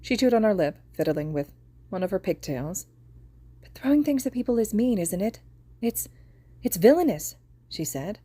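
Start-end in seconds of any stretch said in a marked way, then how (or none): 3.6-7.4 put-on little girl. Girl voiced in story.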